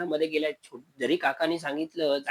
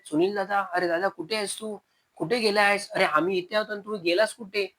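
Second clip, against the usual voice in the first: calling out; 4 semitones higher than usual. Acted. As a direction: shout for your missing brother across the field. Brothers calling for missing Sunil.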